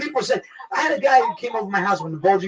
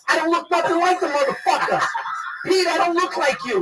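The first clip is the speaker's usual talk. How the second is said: retold anger; 8 semitones higher than usual. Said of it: "I was so fucking angry".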